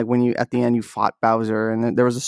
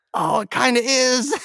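high-pitched reluctant admission; imitating a crestfallen admission; mock dismayed concession; 11 semitones higher than usual. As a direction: concede it high, acting out the letdown. Retold sheepish concession to friends' verdict.

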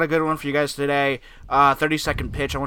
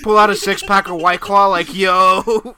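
bro voice; 6 semitones higher, 8 dB louder than usual. Acted. Acting out a bro party voice.

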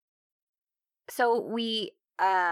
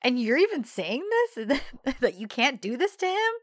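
high voice; 4 semitones higher, 4 dB louder than usual. Retold or imitated. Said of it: "he starts doing his high voice talking".

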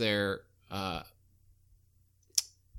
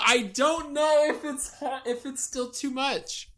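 hesitant; 12 semitones higher, 5 dB louder, slower than usual. Real, not acted. Unsure about dead-actor joke.

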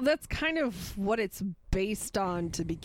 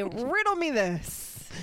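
Riddler voice; slower than usual. Acted. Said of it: "you would say".

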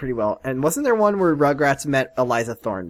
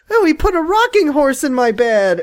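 mock mobster; 12 semitones higher, 5 dB louder than usual. Mocking the film's Godfather gag.

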